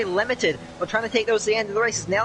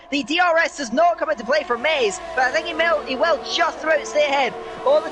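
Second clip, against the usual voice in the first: excited live play-by-play; 4 semitones higher than usual. Real, not acted.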